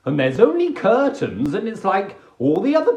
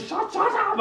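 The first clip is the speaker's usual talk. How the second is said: high flustered snap; 4 dB quieter than usual. Pretend. Embarrassed retort.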